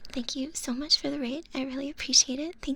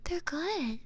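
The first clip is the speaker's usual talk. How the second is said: ordinary talk, nothing marked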